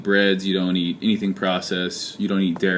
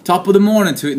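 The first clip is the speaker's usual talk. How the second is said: high, loud put-on Irish-Aussie accent; hammed-up bad accent attempt; mock accent; 10 semitones higher, 5 dB louder, faster than usual. Vlogger tries a bad Australian accent on viewers, high and loud. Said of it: "my Australian accent is not getting any better".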